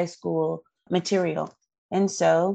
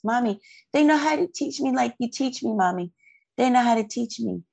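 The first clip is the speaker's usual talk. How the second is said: higher, quick child's voice, lightly voiced; imitating tearful daughter; 6 semitones higher, faster than usual. Mother quoting her crying daughter after the test, high and fast. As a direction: rush it like an overjoyed kid. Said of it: "She's crying, saying this".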